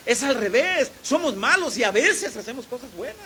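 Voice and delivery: high, loud preaching punch; emphatic correction. Real, not acted. Preacher corrects what people believe, loud and emphatic.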